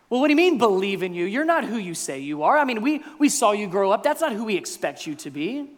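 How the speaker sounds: affronted doubter; indignant objection. Acted. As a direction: push back in disbelief. Crowd objects to Jesus.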